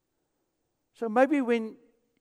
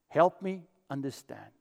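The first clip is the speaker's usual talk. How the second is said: soft slow repeat; 4 semitones lower, 3 dB quieter than usual. Shown as a demonstration.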